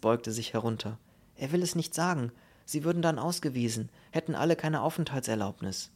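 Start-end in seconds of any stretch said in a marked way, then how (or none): 1.3-5.9 lightly voiced policeman relaying a message. Policeman reports the old man's words to the officer, dutiful relay. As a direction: pass on the injured man's words in a slightly lifted voice.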